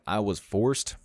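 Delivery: FORCED set apart and emphasized; stress on forced. Real, not acted. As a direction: lean firmly on the word "forced". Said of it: "emphasis on forced".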